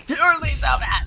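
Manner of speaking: put-on lisping R's as W's, baby voice; cutesy baby talk. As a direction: say it like a cute toddler. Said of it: "You can't replace R's with W's".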